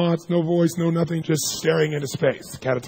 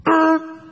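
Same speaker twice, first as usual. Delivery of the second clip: high, loud yank grunt; effort grunt; 13 semitones higher, 5 dB louder than usual. Retold or imitated. Therapist grunting while yanking out a patient's chest hair. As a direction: grunt as you pull hard.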